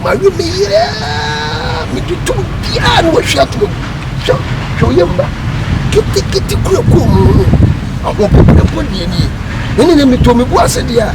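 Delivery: high, loud aggrieved shouting; angry outburst. Acted. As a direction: rant at him at full voice. Complaining loudly, shouting.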